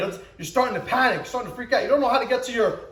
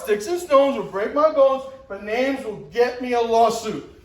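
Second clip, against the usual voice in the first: mocking remix. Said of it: "Now it's".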